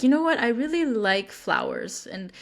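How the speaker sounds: tender, unhurried request; gentle feminine ask. Shown as a demonstration. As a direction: ask kindly instead of complaining. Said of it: "if you wanna embrace more of the feminine energy".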